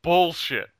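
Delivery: retold outrage, slow and drawn out; flipping out. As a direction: draw out a mock-indignant complaint. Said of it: "So I flip out".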